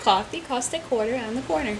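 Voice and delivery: laughing New York accent demo; coffee and quarter the New York way. Shown as a demonstration. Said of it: "can tell if someone's from New York".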